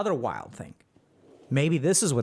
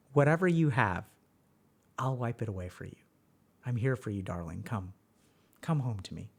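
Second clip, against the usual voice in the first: lower, softer, coaxing lover's croon; seductive YouTube voice; 3 semitones lower, 3 dB quieter than usual. Acted. YouTube seducing a frustrated viewer, soft, low and coaxing. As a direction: lure a tired viewer in like a tempting lover. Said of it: "YouTube opens its arms and says".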